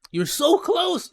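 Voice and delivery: normal talking voice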